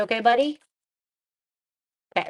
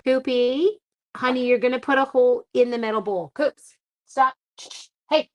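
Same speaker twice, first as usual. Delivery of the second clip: higher, louder call to the dog; 4 semitones higher, 3 dB louder than usual. Real, not acted. Stopping the dog from denting the metal bowl, raised call.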